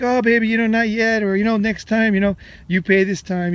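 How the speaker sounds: teasing her along, sweetly; coaxing sweet talk. Retold or imitated. Man stalling his girlfriend with a light coaxing voice. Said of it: "I'd be like".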